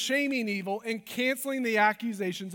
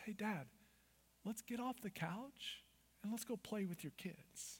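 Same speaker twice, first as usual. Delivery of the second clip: gentle, kindly, very soft voice; 18 dB quieter than usual. Contrasting the voice of evil with God's, the speaker says God's words in the kind voice of God. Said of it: "The kind voice of God says".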